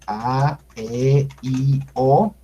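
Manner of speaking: A, E, I, O each held long; slow, sustained A, E, I, O; long vowels. Shown as a demonstration. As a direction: stretch every vowel A, E, I, O separately. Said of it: "Vocales largas".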